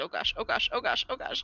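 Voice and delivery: fretful, worried muttering, same words repeated. Voicing a character running after her friend: worried muttering. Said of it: "Hazel's just worriedly muttering".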